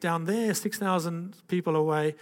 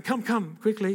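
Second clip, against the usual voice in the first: imitated German urging, higher and louder; thick German accent; 7 semitones higher, 5 dB louder than usual. Evangelist calling him down front, higher urgent German accent. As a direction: put on the German preacher, hurrying him along. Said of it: "he's got this thick German accent".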